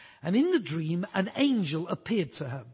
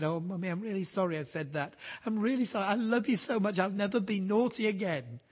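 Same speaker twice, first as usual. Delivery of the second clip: tearful apology; 3 semitones higher, faster than usual. Retold or imitated. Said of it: "tears rolling down his eyes".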